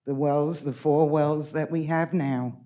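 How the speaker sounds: real shaky voice, holding steady; shaking voice. Real, not acted. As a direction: voice trembling but firm. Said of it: "my voice is shaking, but I'm angry".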